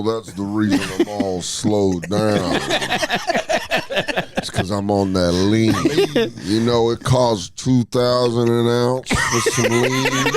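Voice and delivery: slow, lazy drawl; lightly voiced coach on lean; laid-back Saban. Coach Saban bragging to recruits about his lean. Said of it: "He's like".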